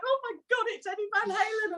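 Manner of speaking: high, starstruck mock panic; retold nervousness. Singer facing her guitar hero on stage, nervous and high-pitched. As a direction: act overawed by your idol. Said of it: "I went into this nervous".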